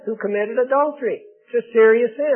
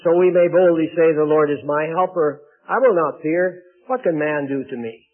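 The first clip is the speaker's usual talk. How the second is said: measured, declarative Bible reading; scripture reading. Acted. Preacher reading Hebrews to the congregation, formal scripture reading. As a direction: read the verses out firmly to a congregation. Reads a Bible passage aloud.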